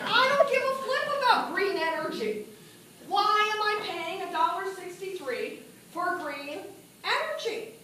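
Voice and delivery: mock outraged complaint; retold anger. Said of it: "I am so mad".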